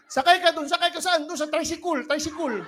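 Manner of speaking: mock a Visayan struggling with Tagalog; imitating Visayan speaker. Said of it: "yung Bisaya, mag-Tagalog".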